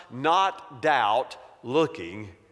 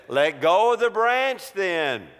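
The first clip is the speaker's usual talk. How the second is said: higher, firmer repeated command; raised voice from on high; insistent voice from above; 4 semitones higher than usual. Acted. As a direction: press the order home emphatically. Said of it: "the voice said".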